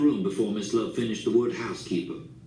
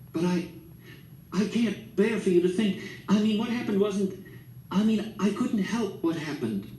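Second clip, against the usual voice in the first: whisper; 8 semitones higher than usual. A narrator's reading. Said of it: "I heard her whisper".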